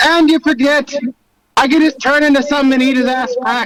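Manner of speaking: put-on speaking in an Irish accent. Speaking in character to the party in a tabletop game: Irish accent. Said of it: "That was the Irish accent".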